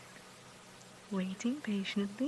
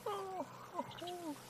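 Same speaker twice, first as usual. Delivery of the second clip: high, soft coo; slow, high murmur of sympathy; 7 semitones higher, 7 dB quieter, slower than usual. Real, not acted. Cooing over cubs being licked.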